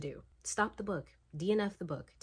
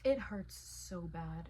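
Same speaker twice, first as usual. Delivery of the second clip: slow hurt; slower than usual. Real, not acted. Emotional pain reading.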